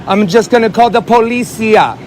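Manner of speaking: slow, sneering fake Spanish-accented "policia"; mock Spanish accent. Man taunting driver in car, mock Spanish accent. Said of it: "taking the piss out of a foreign accent".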